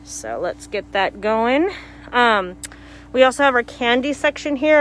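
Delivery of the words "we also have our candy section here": muffled behind a mask; talking through a face mask. Real, not acted. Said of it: "I'm sorry if I sound a little muzzled 'cause of the, um, mask".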